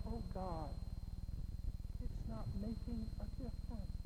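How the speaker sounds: soft, subdued aside; defeated sigh to God. Acted. Preacher voicing a burdened believer to God, quietly defeated. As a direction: drop the volume as if giving up. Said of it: "and just go".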